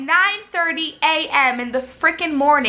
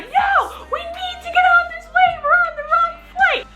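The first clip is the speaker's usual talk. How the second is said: very high, hammed-up panicked yell; frantic refusal. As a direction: imitate mom shrieking at flight attendants. Mom refuses flight attendants' orders.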